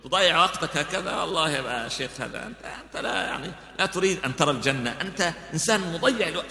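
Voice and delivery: a touch of scornful mockery, lightly voiced; sermon retelling a wife scornfully mocking her husband; mocking sarcasm. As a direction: tease the husband with mild sarcasm. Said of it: "تنظر إليه بسخرية".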